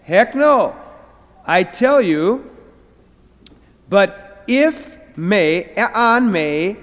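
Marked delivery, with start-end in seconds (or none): 0.0-2.5 loud, firm heck no, with tell drawn out slowly; emphatic negative. Shown as a demonstration. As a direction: bang the table on heck no. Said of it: "it's an emphatic negative".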